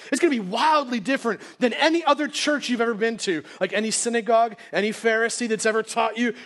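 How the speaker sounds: hyped-up church promoter, lightly parodied; mock sales pitch. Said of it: "selling us some great sales pitch".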